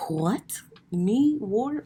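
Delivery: high, loud, stunned "Me, warm?"; can't believe they'd call her warm; incredulous disbelief. Real, not acted. Speaker to audience, shocked at the praise, incredulous.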